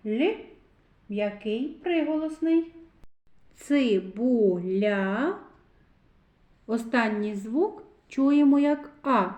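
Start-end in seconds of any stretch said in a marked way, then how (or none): 3.5-5.4 цибуля very slow, long rising final а; drawn-out sounding-out. Shown as a demonstration. Teacher leading children to the last sound, slowly drawn out. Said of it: "звуковий аналіз слова цибуля".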